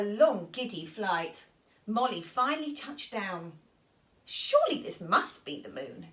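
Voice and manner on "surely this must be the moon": hopeful cry. Acted. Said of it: "she cried".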